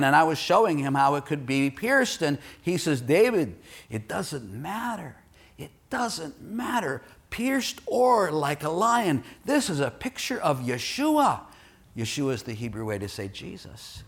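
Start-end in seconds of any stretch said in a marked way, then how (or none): 3.0-11.4 lightly imitated Israeli accent; a friend's Israeli accent, rising in pitch as he insists; Asaf's Israeli accent. Preacher quotes Israeli friend dismissing the word debate, Israeli accent. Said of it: "in his thick Israeli accent".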